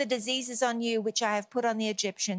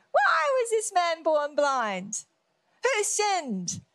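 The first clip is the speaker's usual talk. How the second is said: mock wailing question; 4 semitones higher, slower than usual. Acts disciples after crow joke.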